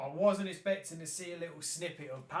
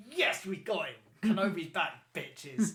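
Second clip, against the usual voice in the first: louder triumphant cheer; fan cheer; 6 dB louder than usual. Retold or imitated. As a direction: crow it like a fan who won.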